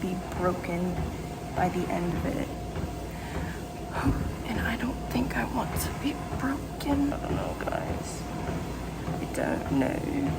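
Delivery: breathy, worried whisper, almost no voice. Real, not acted. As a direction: whisper it like you dread the next page. Upset about the book.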